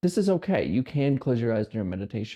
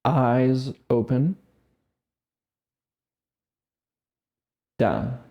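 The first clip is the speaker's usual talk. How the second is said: slow, spaced-out meditation cues; guided meditation; 4 semitones higher than usual. Real, not acted. Guiding listeners to just sit, guided meditation voice. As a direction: leave long silences between short, calm instructions.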